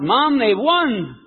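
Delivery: high, slow, stretched-out cry of joy; mock excited shout. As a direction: call out the win to mom, drawn out. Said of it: "and he shouted out".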